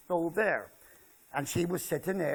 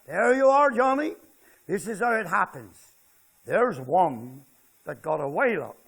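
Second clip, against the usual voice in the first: trapper calling; 5 dB louder than usual. Retold or imitated. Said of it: "He said".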